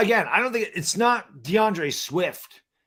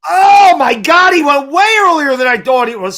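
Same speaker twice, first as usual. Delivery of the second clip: stunned shout; 6 semitones higher, 9 dB louder than usual. Real, not acted. Cohost reacting to an early pick, stunned shout. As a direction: shout it like the news floored you.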